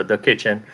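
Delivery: "the kitchen" said the local way, "the" as "da"; local pronunciation. Shown as a demonstration. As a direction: correct it to "the kitchen" with a plain "duh" for "the". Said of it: "wrong emphasis on the wrong syllable".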